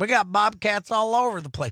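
put-on a light mid-Florida accent on the boast. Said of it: "mid-Florida accent".

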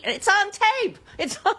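tape stressed high and falling; hammering the word tape; insistent, high emphasis. Real, not acted. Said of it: "insisting to co-host".

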